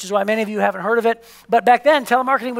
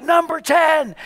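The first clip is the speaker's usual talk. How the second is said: mock crowd call, pitched up; imitated crowd shout; 5 semitones higher, much slower than usual. Banquet crowd counting down the top salesmen, mild imitated shout. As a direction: call it out like a whole room announcing. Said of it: "everybody would shout".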